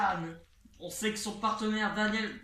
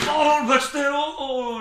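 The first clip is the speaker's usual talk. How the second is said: louder sudden exclamation; surprised shout; 4 semitones higher, 9 dB louder than usual. Real, not acted. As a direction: gasp it out loud. Sudden big move.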